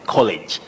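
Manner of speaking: "college" with a weak schwa in the second syllable; schwa demo. Shown as a demonstration. Presenter showing a second way to say it, demo. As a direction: soften the vowel of "lege" in "college" to a schwa. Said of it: "a weak sound".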